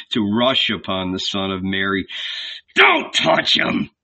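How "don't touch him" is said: muffled voice. A narrator's reading. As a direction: hold it back, muffled. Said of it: "he said in a muffled voice".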